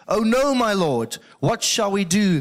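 high, loud, slow cry of dismay; acted alarm. Servant to Elisha on seeing the army, acted alarm.

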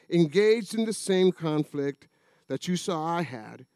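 measured, formal reading of the letter; scripture reading. Acted. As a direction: read the passage like a pulpit lesson. Reads scripture passage aloud.

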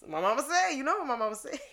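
lightly put-on storytelling lilt; mama-said tone. Shown as a demonstration. Therapist showing how she quotes mama in sessions, playful lilting tone. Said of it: "I use it in that tone of voice".

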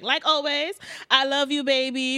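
mock pleading. Recapper mimics Cheyenne begging her lover not to leave, mock pleading. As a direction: beg theatrically for forgiveness.

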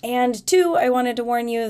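stuffy, blocked-nose nasal voice. Real, not acted. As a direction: talk through a head cold's stuffy nose. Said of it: "I apologize for the nasalness".

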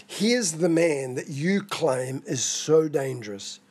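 slow, pointed irony; dripping irony. Acted. Preacher voicing Pilate's ironic presentation of Jesus, dripping with irony. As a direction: draw it out with heavy irony. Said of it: "a statement that's dripping with irony".

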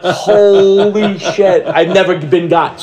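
slow, high, laughing disbelief; laughing amazement. Retold or imitated. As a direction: laugh out your shock. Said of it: "And I was like".

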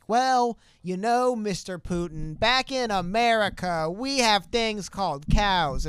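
slow, patient Klobuchar explaining to Putin; Amy Klobuchar impression. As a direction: spell it out slowly like a folksy senator lecturing Putin. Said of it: "That was actually a solid impression".

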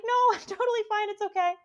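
high-pitched tearful squeak; mock crying. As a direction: act out reassuring people while in tears. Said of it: "people still see me crying".

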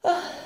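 a quiet, wistful sigh; soft sigh. Acted. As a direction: breathe out a sad little sigh. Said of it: "αναστέναξε πάλι".

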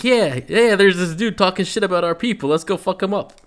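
high, loud and fired up; hyped-up Kimbo. Retold or imitated. Kimbo fires up a sleepy Brendan for a fight, excited. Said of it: "And Kimbo's like".

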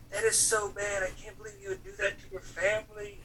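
high-pitched mock weepy complaint; imitated tearful wife. Husband imitating his tearful wife in the car, high weepy reproach. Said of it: "start to tear up in the back seat".

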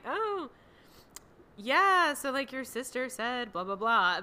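imitating a dry, sarcastic reply, high drawn 'oh' at first; sarcastic humor. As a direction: play along with mock interest, starting high. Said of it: "put some sarcastic, like, humor".

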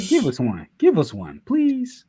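mock begging, high-pitched pleases; playful begging. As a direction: beg for it like a desperate fan. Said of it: "look at me begging".

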